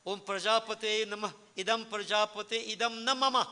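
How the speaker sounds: intoned Sanskrit offering; mantra recitation. Shown as a demonstration. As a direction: recite the offering formula, pitch lifted.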